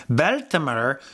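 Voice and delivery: put-on playful, slight Irish accent; a hint of mock Irish on the names. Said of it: "doing it in an Irish accent".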